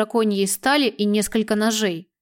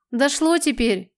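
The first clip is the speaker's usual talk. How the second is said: slow scornful snort; 4 semitones higher, slower than usual. Acted. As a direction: snort it out with contempt. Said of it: "фыркнул главарь". (презрительно фыркая)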